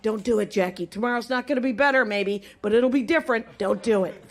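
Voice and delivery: low, gentle self pep talk. Shown as a demonstration. Comedian giving herself a gentle pep talk when depressed. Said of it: "Here's my pep talk".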